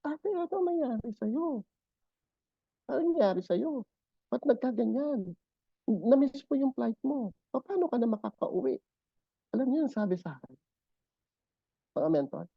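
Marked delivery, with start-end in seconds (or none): 0.0-8.8 worried pleading. Retold or imitated. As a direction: plead gently with her. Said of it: "sabi ko".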